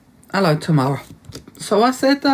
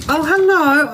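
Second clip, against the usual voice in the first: sudden hello; 9 semitones higher, 3 dB louder, slower than usual. Real, not acted. Greeting dog mid-story.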